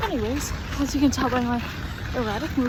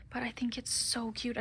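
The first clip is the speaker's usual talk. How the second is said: soft whispered gush; whispering; 14 dB quieter than usual. Real, not acted. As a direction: whisper it fondly. Whispered aside about sweater.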